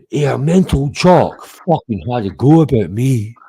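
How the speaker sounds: put-on mocking voice; mock complaint. Streamer mimicking his rival's next short, mocking. Imitates what Herman will say.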